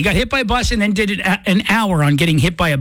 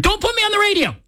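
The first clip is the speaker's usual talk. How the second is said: imitating Lana; 12 semitones higher, faster than usual. Retelling Lana's refusal on air.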